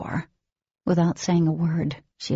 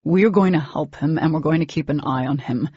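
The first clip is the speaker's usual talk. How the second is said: sternly; 4 dB louder than usual. Acted. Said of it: "Demon continued sternly".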